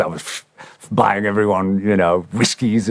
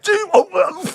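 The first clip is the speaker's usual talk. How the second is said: stunned surprise. Retold or imitated. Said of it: "it was like".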